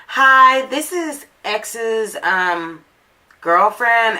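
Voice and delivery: a hint of the other woman introducing herself; girlfriend's voice. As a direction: lightly mimic the hesitant girlfriend. Boyfriend's girlfriend calls her.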